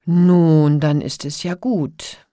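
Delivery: loud, relieved exclamation; feigned relief. A narrator's reading. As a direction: let it out as if a weight dropped. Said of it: "tat, als sei ihr ein Stein". (gespielt erleichtert)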